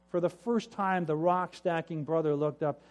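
plain reading voice

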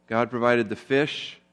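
God provided the storm earlier, said slowly and deliberately; slow stress on provided. Shown as a demonstration. Pastor stressing the three times God provided, slow and deliberate. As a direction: lay each word down slowly. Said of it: "it says that God provided three times".

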